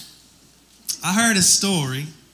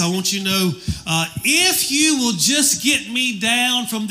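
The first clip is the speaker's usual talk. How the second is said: mildly hammed-up pleading, higher voice; pleading jogger; 5 semitones higher than usual. Hanging jogger bargains with God, mock pleading. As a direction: bargain earnestly, pitch climbing. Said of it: "starts just spouting out all these things".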